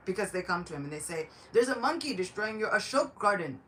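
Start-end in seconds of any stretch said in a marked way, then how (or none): 1.5-3.6 higher, louder cry of alarm; alarmed report. Acted. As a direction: report the disaster urgently. Soldiers report the destruction to Ravana.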